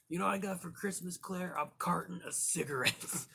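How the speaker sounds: a hint of the sneering movie delinquent; quick snide movie quote, barely put on; Bender from The Breakfast Club. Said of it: "Bender was on The Breakfast Club".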